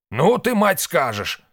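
high, loud incredulous scoff; scandalised exclamation. A narrator's reading. Husband reacting to his wife's idea, scandalised.

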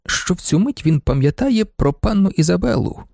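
ordinary delivery, nothing marked

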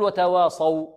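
وتواصوا with a wrongly heavy final "aw"; تفخيم الواو الثانية. Shown as a demonstration. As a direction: darken the last waw of وتواصوا as a mistake. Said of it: "كذلك الواو الثانية لا نقول". (تفخيم الواو الثانية في وتواصوا خطأً)

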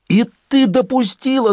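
high, loud shocked yell; shouting. A narrator's reading. Lyonya shouting at Lola over the phone, alarmed. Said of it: "заорал Лёня".

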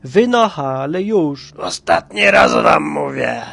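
loud, angry last warning. A narrator's reading. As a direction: order them out, slowing heavily at the end. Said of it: "i się zezłościł".

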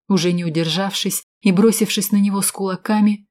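plain reading voice

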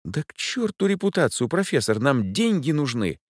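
he's tearing his hair; desperate exclamation. A narrator's reading. Dan pleads with the professor for the money.

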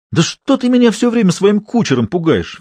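exasperated outburst. Acted. Drunk Fedor to Natasha, high exasperated outburst. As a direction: throw up your hands in annoyance.

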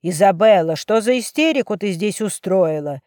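loud stern rebuke; father scolding his daughter sharply. Acted. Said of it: "строго спросил Альберто". (отец строго отчитывает дочь, громко)

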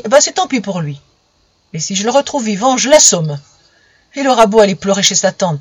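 gruff threat. Acted. Father orders and threatens.

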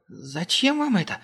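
high, slow scared question; frightened. A narrator's reading. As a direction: ask it trembling. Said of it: "ещё больше испугался техник".

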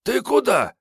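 put-on high, rough drunkard's call; boozy voice. Kiryay calling after leaving Sergey, boozy voice. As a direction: stop him with a boozed-out bark. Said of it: "пропитой голос".

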